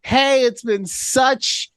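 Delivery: slow, high syrupy friend greeting; sugary sweet voice. Retold or imitated. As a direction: lay the fake sweetness on thick.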